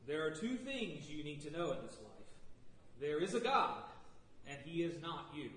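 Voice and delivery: a hint of a gravelly preacher growl; rough gravel in the voice, half put-on; deep gravelly voice. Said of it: "in a deep, gravelly voice".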